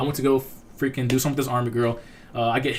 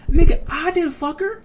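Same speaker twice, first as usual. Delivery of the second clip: high, louder mock-outraged protest; indignant denial; 5 dB louder than usual. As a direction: protest your innocence with pitch leaping up. Acting out indignant reply to accusation.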